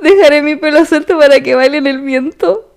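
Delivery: leer verso a verso, con cadencia; recitado de letra. Shown as a demonstration. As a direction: recitar una canción como poema. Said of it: "yo estoy recitando". (declamación medida, sin cantar)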